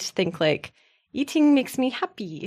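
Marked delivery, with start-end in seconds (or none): 1.1-2.5 high, happy little sing-out; higher and light. Shown as a demonstration. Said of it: "higher and light".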